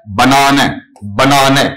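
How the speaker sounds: बनाने with a long open middle 'naa'; British banana, short first and last syllables; British pronunciation. Shown as a demonstration. Teacher modelling the UK form for students, British pronunciation. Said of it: "तो इसका उच्चारण क्या है?".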